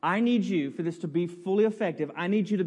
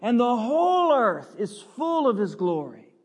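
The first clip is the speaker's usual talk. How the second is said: lightly voiced seraphim, raised; 3 semitones higher, 4 dB louder than usual. Pastor voicing the seraphim before God's throne, mild awe. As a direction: proclaim it like an angel, a touch higher. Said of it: "these seraphim saying".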